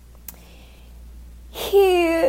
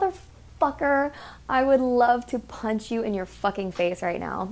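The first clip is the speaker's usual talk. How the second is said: inner rage. Retold or imitated. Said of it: "Not really".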